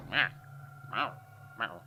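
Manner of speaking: three short meow-like noises mocking the driver; short mocking squawk, repeated with gaps; imitated little noises. Mimics driver peering in mirror.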